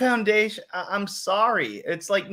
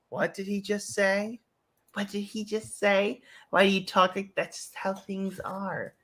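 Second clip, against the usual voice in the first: softer, mock-baffled aside; hushed bewilderment; 2 semitones higher, 5 dB quieter than usual. Host acts everyone hearing the newscaster, hushed bewilderment. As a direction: act out a puzzled onlooker under the breath.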